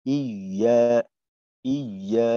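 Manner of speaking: ইয়া said "iy-yaa", gliding gently through the y; gentle doubled ya. Shown as a demonstration. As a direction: show ইয়া with a held but relaxed y. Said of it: "ইয়ার মাখরাজ আলতো ভাবে".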